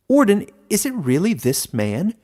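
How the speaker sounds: a frog-like creature bursting out with hope; blurted frog question. A narrator's reading. Frog creature blurting to the Warden, high and excited. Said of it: "blurted the frog-like creature".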